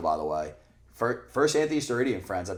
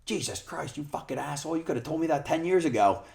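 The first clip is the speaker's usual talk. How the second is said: higher, half-yelled imitation of the boss; mock exasperated rant; 8 semitones higher, 3 dB louder than usual. Imitating the angry boss, higher and louder. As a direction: act out the boss's outraged disbelief. Retold heated exchange with boss.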